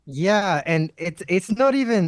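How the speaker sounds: high, squeaky glitched voice. Real, not acted. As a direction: sounds like inhaled helium. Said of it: "what the fuck is going on with your voice".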